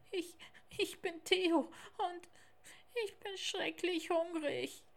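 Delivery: high, halting little tiger; small, high voice of a hungry cub. Acted. Theo introducing himself to Lars, high little tiger voice.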